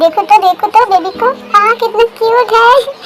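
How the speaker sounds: put-on lilting, delighted baby admiration; cooing over baby. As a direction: gush sweetly over a cute baby. Parents admiring their baby.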